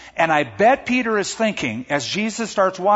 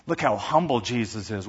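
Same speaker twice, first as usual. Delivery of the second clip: a little convicted; 5 semitones lower, 4 dB quieter than usual. Acted. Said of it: "feeling a little bit convicted".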